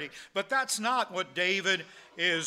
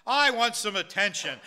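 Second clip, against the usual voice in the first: raised, loud mock baby demands; crying baby; 4 semitones higher, 6 dB louder than usual. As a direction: voice a needy infant's insistent cries, without real sobbing. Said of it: "and so they're crying".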